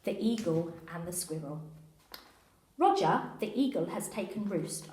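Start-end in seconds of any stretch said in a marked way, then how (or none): 2.8-3.3 police radio talk. Acted. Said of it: "why you're speaking like that". 3.4-4.9 mild walkie-talkie code talk; just a hint of police radio jargon; lightly voiced radio code. Officer reporting in code, lightly voiced radio talk. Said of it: "why you're speaking like that".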